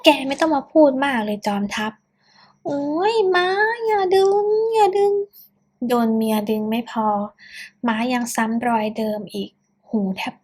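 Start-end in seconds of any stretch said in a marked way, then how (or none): 2.6-5.1 high yelping cry as his ear is pulled; pained yelp. Acted. Son yelps as mother yanks his ear, high pained cry. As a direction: yelp in pain, ear being yanked.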